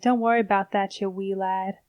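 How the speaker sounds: Southern accent slipping toward Scottish; lightly put-on Southern voice with an Irish or Scottish tinge. Shown as a demonstration. Imitating a Southerner who talks Scottish, lightly mixed Southern-Scottish accent. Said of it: "I wanted to go Irish or Scottish".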